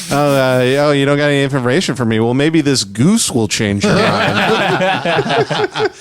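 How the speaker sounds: lightly voiced briber holding out a goose; imitating Norm Macdonald. Retelling a Norm Macdonald joke, lightly voiced briber. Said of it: "Norm Macdonald joke".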